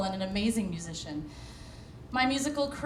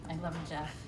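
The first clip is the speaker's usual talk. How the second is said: soft, heartfelt thanks to her director; real quiet tenderness; tender; 5 semitones lower, 8 dB quieter, faster than usual. Real, not acted. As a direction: say it gently, almost breaking. Dedicating award to her director.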